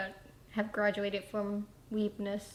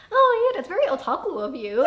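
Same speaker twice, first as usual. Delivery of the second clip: a little higher; 5 semitones higher, 6 dB louder than usual. Shown as a demonstration. Escalating the weeb talk with a friend, a bit higher. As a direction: pitch it up a little for the nerdier line. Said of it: "you say something a little higher".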